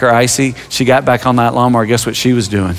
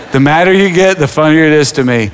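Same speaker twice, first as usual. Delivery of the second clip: laughing; 3 semitones higher than usual. Real, not acted.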